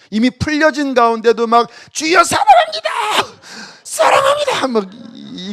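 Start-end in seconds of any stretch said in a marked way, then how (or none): 1.9-4.7 shouted high, crying out in prayer; loud crying out. Shown as a demonstration. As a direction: cry it out at full voice. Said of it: "이거는 좀 안 맞아요". (크게 외치는 기도)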